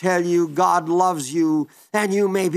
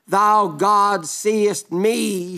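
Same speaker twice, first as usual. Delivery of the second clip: slow reverent cry; much slower than usual. Acted. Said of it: "when Hagar cried out".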